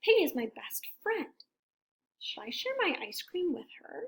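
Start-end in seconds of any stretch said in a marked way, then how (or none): 2.2-4.0 hushed whisper, rising at the end; whispered question. Acted. Elephant secretly wondering about sharing, whispered. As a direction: ask yourself in secret.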